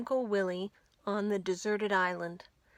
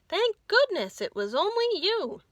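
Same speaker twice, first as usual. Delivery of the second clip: relieved; 10 semitones higher, 6 dB louder than usual. Acted. Everyone relieved.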